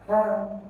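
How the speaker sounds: pertinent with PER stressed; careful teacher's PER-ti-nent; stress on first syllable. Shown as a demonstration. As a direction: lean on PER in pertinent, then break off the rest. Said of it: "stress the first or the third syllable to the end".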